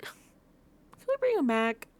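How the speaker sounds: high, drawn-out whine; weepy, stretched-out begging; sad pleading. Real, not acted. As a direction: plead slowly as if near tears. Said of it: "I'm really sad".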